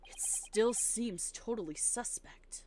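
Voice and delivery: whispered aside; a doubtful whispered aside. Real, not acted. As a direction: murmur your suspicion under your breath.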